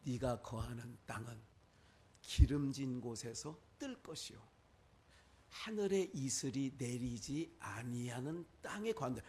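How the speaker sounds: lightly acted Isaac, low and measured; patriarch's solemn pronouncement. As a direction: pronounce a father's grave oracle. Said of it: "이삭이 이렇게 얘기해요".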